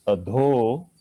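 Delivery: "Adho" with a long, slow opening a. Shown as a demonstration. Yoga teacher modelling the word, slow long a. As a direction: hold the first a of "Adho". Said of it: "A is long".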